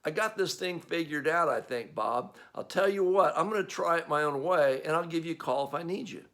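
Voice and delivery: cocky know-it-all. Retold or imitated. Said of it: "you go".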